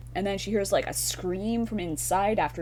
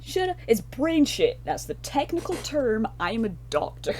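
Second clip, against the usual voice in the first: mock doctor; 5 semitones higher than usual. Mocking a know-it-all doctor.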